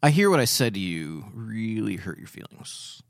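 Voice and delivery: slow, earnest validation; measured and sincere, slowly; slow validating. Shown as a demonstration. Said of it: "I'll see if I can try this one".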